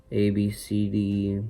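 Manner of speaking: burped letters; talking while burping. Real, not acted. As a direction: burp out the letters. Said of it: "burping the alphabet".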